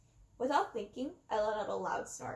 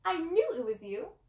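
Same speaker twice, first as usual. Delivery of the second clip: clown shriek, higher and louder; 5 semitones higher, 6 dB louder than usual. A narrator's reading. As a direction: shriek it in recognition. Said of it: "Chuckles shrieked".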